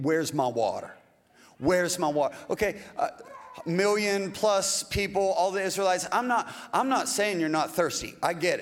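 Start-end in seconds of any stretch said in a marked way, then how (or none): 0.0-2.3 half-hearted imitation of demanding complainers; lightly acted insistent demand; mock demanding. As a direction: demand it as a put-on complaint, without shouting. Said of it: "they were demanding".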